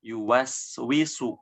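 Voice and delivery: Yuwaswisu with clear full waw; slow, clear Yuwaswisu. Shown as a demonstration. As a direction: complete waw. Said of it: "harus disempurnakan".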